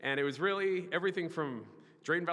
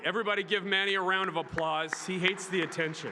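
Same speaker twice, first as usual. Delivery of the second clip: in front of an audience; 4 semitones higher, 4 dB louder than usual. Real, not acted. Calling crowd to applaud.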